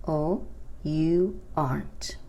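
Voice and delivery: "you aren't" whispered slowly; whispered demo. Shown as a demonstration. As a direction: breathe it out softly. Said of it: "Aren't se pronuncia como".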